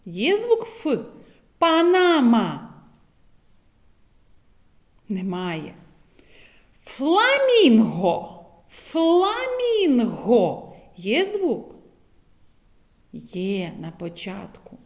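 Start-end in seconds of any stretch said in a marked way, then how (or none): 1.6-2.7 Панама drawn out slowly, syllable by syllable; slow teacher word. Shown as a demonstration. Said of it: "зловити звук Ф в словах". 6.8-10.7 Фламінго stretched very slowly, Ф held; very slow word. Shown as a demonstration. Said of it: "зловити звук Ф в словах".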